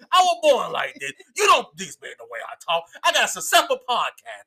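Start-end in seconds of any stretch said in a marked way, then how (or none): 0.1-2.8 defensive shout. Real, not acted. Defensive outburst about stutter.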